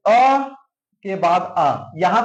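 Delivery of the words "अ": अ said alone, held and rising; sounded-out vowel. Shown as a demonstration. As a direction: hold अ up as a separate sound. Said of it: "बोलकर देखो".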